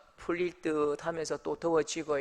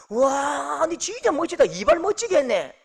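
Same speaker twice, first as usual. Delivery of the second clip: high, admiring, a little louder; mock gushing praise; 10 semitones higher, 6 dB louder than usual. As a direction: praise the haircut with delight. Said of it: "화를 내는 거예요".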